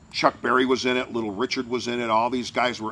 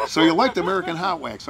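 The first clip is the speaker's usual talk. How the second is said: higher, louder, suddenly sociable question; a rock-and-roll singer, nothing happened; 6 semitones higher, 6 dB louder than usual. Retold or imitated. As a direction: imitate someone carrying on as if nothing happened. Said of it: "like nothing happened".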